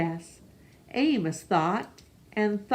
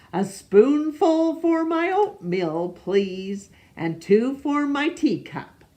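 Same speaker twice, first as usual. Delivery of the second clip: put-on gentle old man voice; 5 semitones higher, 3 dB louder than usual. Amos talks to sugar bowl.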